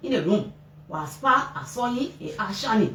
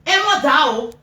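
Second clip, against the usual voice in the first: retold accusing cry; 5 semitones higher than usual. Mother accusing father over son's death.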